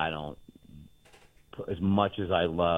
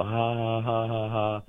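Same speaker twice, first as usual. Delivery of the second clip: imitating haters' laugh, pitched higher; mocking laughter; 5 semitones higher, 3 dB louder, slower than usual. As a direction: put on a drawn-out "ha ha" of gloating haters. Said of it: "my haters will laugh and go".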